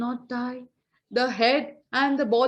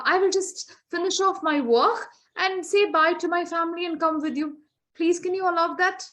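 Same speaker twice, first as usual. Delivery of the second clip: higher, eager begging voice; pleading for time; 4 semitones higher than usual. Acted. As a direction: beg politely for five more minutes. Lucky Ram begs Yama for time.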